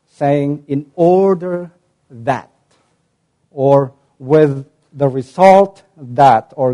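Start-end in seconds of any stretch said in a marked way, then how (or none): 0.7-2.5 slow deliberate phrase. Shown as a demonstration. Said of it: "we translate that in English saying". 4.2-6.5 slow deliberate phrase. Shown as a demonstration. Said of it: "we translate that in English saying".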